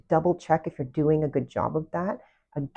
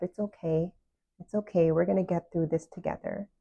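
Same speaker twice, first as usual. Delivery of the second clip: soothing self-comfort. Retold or imitated. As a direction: comfort yourself like a friend would. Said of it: "hug yourself and love yourself and tell yourself".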